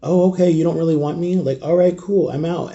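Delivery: leaving a home that doesn't want him, mock casual. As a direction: shrug it off with a bitter edge. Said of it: "I'm like".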